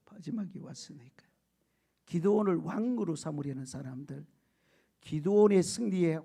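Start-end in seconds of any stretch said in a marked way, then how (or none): 0.1-1.3 soft unvoiced aside; whisper. Real, not acted. Preacher to the congregation, teasing whisper. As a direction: whisper it as a playful secret. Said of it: "whispered aside".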